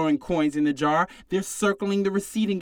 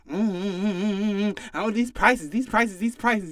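grumbling customer; 2 semitones higher than usual. Retold or imitated. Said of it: "the people talking about some".

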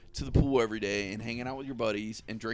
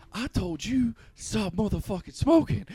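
scolding wife; 9 semitones higher, 6 dB louder than usual. Retold or imitated.

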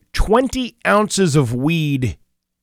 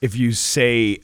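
ordinary talk

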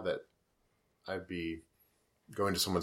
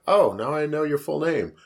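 gleeful menace; 6 semitones higher, 5 dB louder than usual. Retold or imitated. Meeting the date at the post office.

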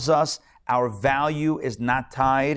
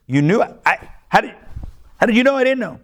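shocked disbelief; 10 semitones higher, 4 dB louder than usual. Retold or imitated. Wife shocked in retold joke.

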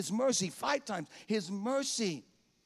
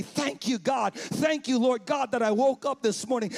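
rising, louder shout of thanks; loud thanks to God; 2 semitones higher, 4 dB louder than usual. Shown as a demonstration. Preacher leading the church in a loud morning thanks. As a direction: cry out thanks to God at waking. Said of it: "I want you to say".

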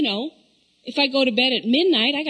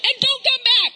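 higher, laughing exasperated shout; laughing mock rant; 7 semitones higher than usual. Mom laughing while mock-scolding her kid out of the car. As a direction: rant through the giggles.

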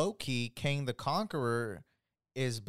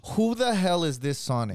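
louder, higher mock outrage; heated outrage; 5 semitones higher, 5 dB louder than usual. Fan voices everyone's reaction to the trailer, heated. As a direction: imitate fans erupting in protest. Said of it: "sorry that I'm getting so heated".

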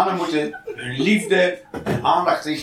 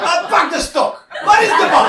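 high excited pet talk; excited, high-pitched calling to a dog; playful dog-owner calls; 11 semitones higher, 5 dB louder than usual. Acted. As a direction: rile up a dog to fetch.

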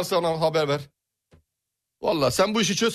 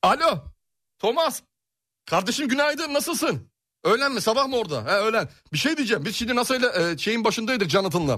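high phone voice; 3 semitones higher than usual. Pretend. Fake phone call to Thomas.

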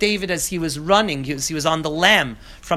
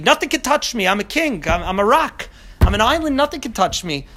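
higher and louder, a proud king's boast; boastful mighty king; 5 semitones higher, 4 dB louder than usual. Acted. Teacher voicing an arrogant king to his class, lightly boastful. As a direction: puff up like an untouchable tyrant king. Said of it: "that kind of a king".

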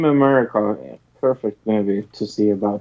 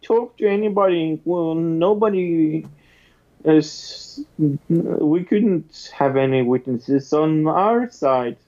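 mocking Republican voice; 4 semitones higher than usual. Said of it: "the Republican answer is like".

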